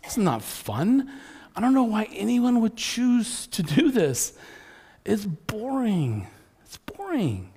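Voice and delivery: mildly hammed-up exasperated whine, rising in pitch; fed-up complaining. Frustrated churchgoer venting about religion without joy, complaining. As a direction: grumble like someone sick of the rules.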